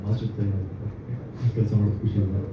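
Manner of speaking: soft, barely audible speech. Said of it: "sir, ನಿಜವಾಗ್ಲೂ ಕೇಳಿಸ್ತಿಲ್ಲ".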